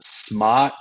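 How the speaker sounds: put-on Boston-accented "Smart" with the R dropped. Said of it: "the second I heard Smart".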